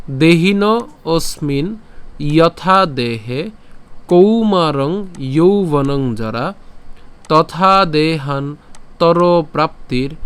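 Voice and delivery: slow, phrase by phrase with pauses; broken-up recitation. Shown as a demonstration. Teacher reading the broken verse so pronunciation is clearer, slow. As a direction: break the verse into small pieces, slowly. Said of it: "এই শ্লোকটিকে একটু ভেঙে দিয়েছি".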